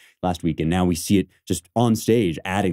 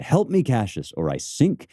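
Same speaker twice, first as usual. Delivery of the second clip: mock cry for help; 5 semitones higher than usual. Shown as a demonstration. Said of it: "Caesar cried".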